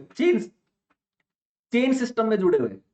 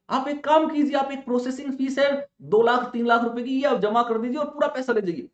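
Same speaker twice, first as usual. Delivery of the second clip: smooth scam caller; 7 semitones higher than usual. Retold or imitated. Scam caller asking for fee.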